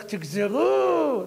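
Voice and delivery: drawn out royal decree; King Solomon orders the baby cut, slow and firm; king's slow verdict. Retold or imitated. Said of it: "אמר שלמה המלך".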